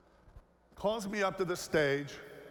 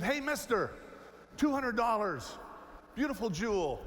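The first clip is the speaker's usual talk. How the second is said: lightly voiced pushy street vendor, higher; a hint of a hawking kid, higher pitch; 4 semitones higher than usual. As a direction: call out to a tourist like a kid selling trinkets. Street kid selling jewel.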